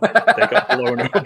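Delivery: high, slow, half-laughing; high mock wail. Retelling deaths, high slow.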